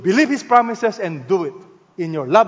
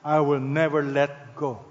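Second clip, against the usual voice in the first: God's tender promise; 5 semitones lower, 5 dB quieter than usual. Acted. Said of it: "And God is saying".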